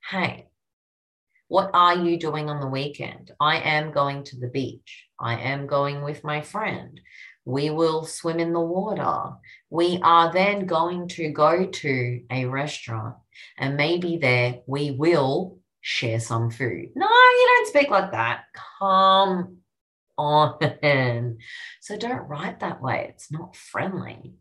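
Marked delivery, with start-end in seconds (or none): 0.1-16.9 stiff, overly formal, no contractions; a lightly voiced stilted speaker; stiff formal speech. Shown as a demonstration. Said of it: "do you speak like this?". 16.9-21.4 playfully scandalised; incredulous. Real, not acted. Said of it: "mock outrage at stiff talk".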